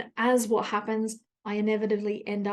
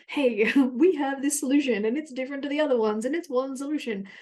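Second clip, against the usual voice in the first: higher, hammed-up ad enthusiasm; mock sales pitch; 4 semitones higher than usual. Marketer pitching the one new solution, mock enthusiasm. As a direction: imitate an eager marketer, with a laugh in it.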